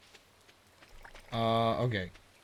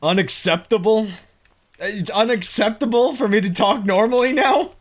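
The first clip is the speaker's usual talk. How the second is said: loud, higher southern protest; mock-indignant southern drawl; 10 semitones higher, 9 dB louder than usual. Shown as a demonstration. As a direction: protest in a hammed-up southern accent. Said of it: "I guess I just talk like this".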